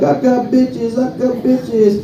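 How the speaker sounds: slow, drawn-out sly offer; slow tempting devil. Retold or imitated. Devil luring him away from Jesus, slow and sly.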